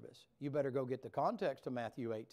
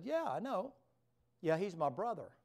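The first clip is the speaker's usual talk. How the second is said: the Lord knowingly; 5 semitones higher than usual. Acted. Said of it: "The Lord said".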